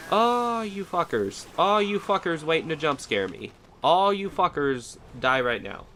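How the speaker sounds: shrieked cursing at enemies; high-pitched outrage. Real, not acted. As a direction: yell it high at the ambushers. Enemies ambush, streamer rages.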